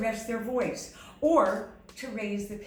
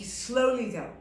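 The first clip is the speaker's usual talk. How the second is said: said slowly; 3 dB louder than usual. Shown as a demonstration. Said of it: "I said it slowly".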